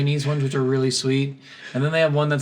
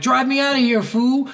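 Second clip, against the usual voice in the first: mock yelled order; 10 semitones higher, 4 dB louder than usual. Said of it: "and then he's like".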